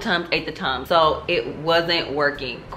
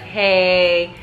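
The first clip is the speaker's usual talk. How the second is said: casual hey; 3 semitones higher, 5 dB louder than usual. Retold or imitated. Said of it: "he's just like".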